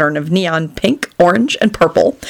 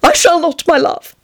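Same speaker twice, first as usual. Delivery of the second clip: dejected vow; 9 semitones higher than usual. A narrator's reading. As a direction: struggle nobly through mock heartbreak. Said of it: "he vowed dejectedly".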